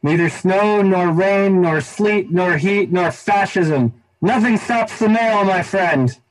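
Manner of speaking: high, solemn declaiming postal motto; recited motto. Pretend. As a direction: proclaim it like a creed. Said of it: "Let's see if I get it right".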